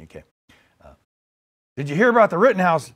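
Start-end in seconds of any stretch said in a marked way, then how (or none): 1.8-2.9 Biden impression gone lightly Southern; accidental southern accent. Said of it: "gave him a southern accent".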